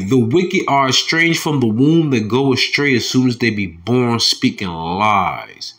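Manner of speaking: slow proclaiming of the verse; drawn-out final words; scripture reading. Acted. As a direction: read it out like a preacher. Reads verse three aloud.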